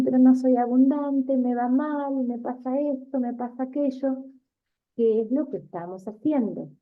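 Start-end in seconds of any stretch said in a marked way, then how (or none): 0.0-4.2 lightly voiced whiny complainer, a bit higher; complaining people. Teacher imitating students who complain about bad luck, mildly whiny. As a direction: mimic someone moaning that life goes badly. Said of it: "Hay personas que dicen".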